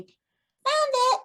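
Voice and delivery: high, loud triumphant call; excited shout. Acted. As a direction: call out proudly to the group across the room. Character calls out to the group.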